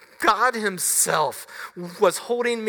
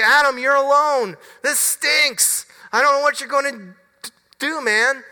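mock pity party; 5 semitones higher, 4 dB louder than usual.

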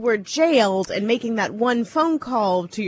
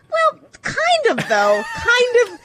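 laughing emphasis; 12 semitones higher, slower than usual. Real, not acted. Teasing co-host about jail story.

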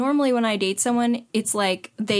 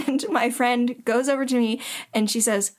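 usual speaking voice

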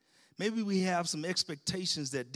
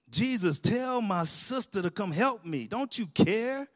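raised, whiny pleading; frustrated complaint; 4 semitones higher, 5 dB louder than usual. Acted. Martha complaining to Jesus, exasperated and raised. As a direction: demand help, exasperated.

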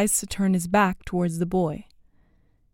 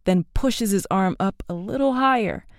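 ordinary delivery

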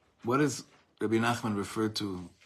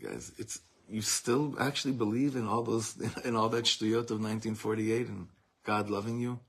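mocking scoffers. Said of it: "laughing at us and saying".

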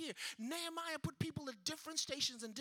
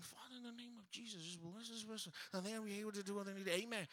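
softly murmured prayer over a patient; praying softly while handing out medicine; hushed prayer; 4 semitones lower, 6 dB quieter than usual. Retold or imitated. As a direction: drop to a quiet, intimate prayer.

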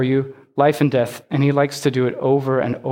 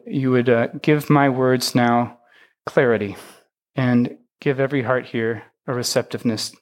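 low, earnest spoken prayer; public prayer; 3 semitones lower than usual. Real, not acted. Pastor asking God's help before the sermon, low prayer. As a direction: pray aloud steadily, with pauses between petitions.

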